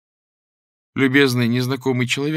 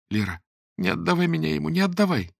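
high, pleading cry; desperate plea; 7 semitones higher than usual. Acted. The terrified girl begs her friend, pleading. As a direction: beg not to be handed over.

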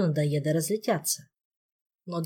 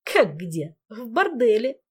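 cheeky, gleeful ghost; sly teasing trickster spirit; 5 semitones higher, 4 dB louder, slower than usual. Acted. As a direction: tease the boss with it. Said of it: "Дух противно хихикнул". (лукавый дразнящий дух)

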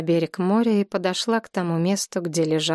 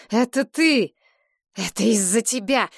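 raised, accusing outburst; angry accusation; 3 semitones higher than usual. A narrator's reading. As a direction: throw the blame at her. Oleg accuses Galina in grief. (гневное обвинение, голос повышен)

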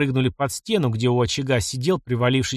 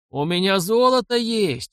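higher, slowed, pushed roar; 7 semitones higher than usual. A narrator's reading. Bleeding robber bargains for his life, higher slow roar. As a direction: bellow the offer in desperation. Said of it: "взревел Подгорянин".

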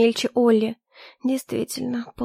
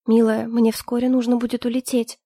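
usual speaking voice

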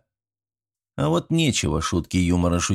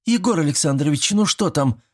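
high anxious call from above; worried girl; 8 semitones higher than usual. A narrator's reading. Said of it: "взволнованный голос Даши".

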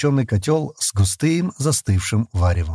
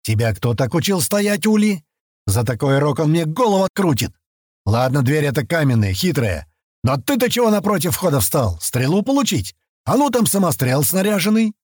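scolding; 6 semitones higher than usual. A narrator's reading. Tarkh scolds careless heir.

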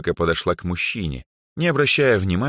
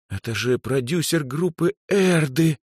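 admiring whisper; 10 semitones higher than usual. A narrator's reading. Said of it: "восхищённо прошептала Даяна".

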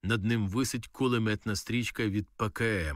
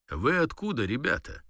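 playing the boss; 5 semitones higher than usual. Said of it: "ну, типу начальник".

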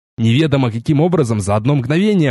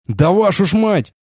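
pitched-up outburst of nerves; exasperated curse; 6 semitones higher than usual. A narrator's reading. Elf losing his nerve at the king's court, cursing. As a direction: snap under the pressure. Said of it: "не выдержав, ругнулся я".

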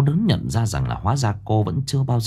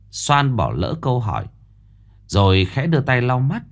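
ordinary delivery

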